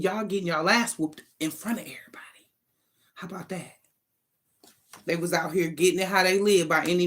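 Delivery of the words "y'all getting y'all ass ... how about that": whispered gleeful taunt; gloating whisper. Real, not acted. Reader whispering taunts at the guilty ones. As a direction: hush it and savor it.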